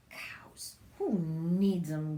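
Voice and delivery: whispered, slow grumble; grumbling. Acted. Witch grumbling after the cow leaves, whispered. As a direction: grumble it under your breath. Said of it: "Gritch grumbled".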